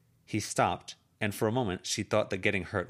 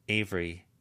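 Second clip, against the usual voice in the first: hard voice. Acted. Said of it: "her voice hard".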